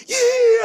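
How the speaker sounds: high sobbing 예; a wailing, teary 예, pitched high; mock crying yes. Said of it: "하면서 울면서". (울먹이며 높게 외치는 예)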